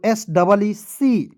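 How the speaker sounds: letters spaced out slowly for the class; slow spelling. Shown as a demonstration. Teacher spelling out a word to students, slow and clear. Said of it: "teacher spells slowly for class".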